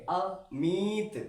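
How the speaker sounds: अमित very slow, a pause then a long i. Shown as a demonstration. Teacher repeats how it is read, long i. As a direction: hold the i of अमित after a separate a. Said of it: "ऐसे करके बोलेंगे".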